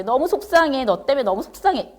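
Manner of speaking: mildly upset parent, pitch lifted; acted emotional upset. Parent blaming the child, mildly upset and emotional. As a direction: lightly act out a hurt parent's complaint. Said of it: "항상 감정에 많이 이렇게 치우치고".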